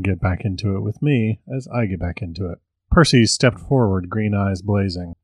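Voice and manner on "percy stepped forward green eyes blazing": steady, even audiobook read; story narration. A narrator's reading. Author reading his witch story aloud, evenly. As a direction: read the tale to your listeners.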